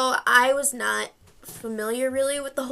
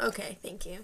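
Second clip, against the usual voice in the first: whisper; 4 semitones lower, 10 dB quieter than usual. Real, not acted. Sarcastic aside after journalism jab.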